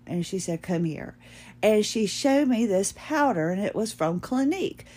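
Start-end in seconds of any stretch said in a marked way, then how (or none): 0.6-1.2 softer, lower aside; imitating a discreet invitation; mock confidential beckoning. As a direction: quietly call her closer, as a seller would. Retold seller beckons customer.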